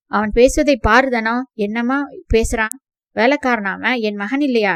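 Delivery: loud, hurt and indignant; outraged reproach. Acted. Guardian scolds adopted boy, loud and indignant. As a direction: shame him for his ingratitude.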